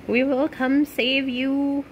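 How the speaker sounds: high, slow sing-song promise; light, lilting reassurance to someone lost; playful rescue call. Pretend. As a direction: call it out drawn-out like a mock rescuer.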